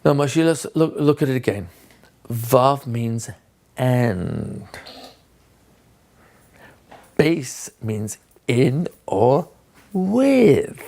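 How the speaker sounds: a hint of impatient sarcasm; slightly sarcastic. Shown as a demonstration. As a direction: sound faintly fed up with the boy. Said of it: "I'm being slightly sarcastic".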